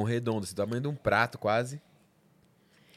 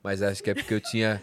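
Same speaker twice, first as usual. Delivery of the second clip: laughing; 4 semitones lower than usual. Real, not acted. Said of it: "Você ri, né?".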